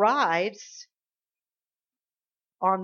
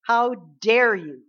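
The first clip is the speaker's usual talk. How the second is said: loud, slow, indignant challenge; righteous indignation; 7 dB louder, slower than usual. Acted. David challenging the giant who defies God's armies, indignant. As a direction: hit DARE hard, drawn out. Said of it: "Righteous indignation".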